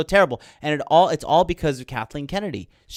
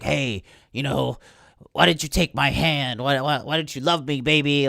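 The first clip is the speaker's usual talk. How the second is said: mock begging. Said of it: "basically begging like a little fucking dork".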